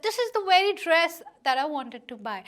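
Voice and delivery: a light touch of happy surprise; as if a friend just handed you the dress; mildly surprised. Retold or imitated. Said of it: "you were so surprised and you said that".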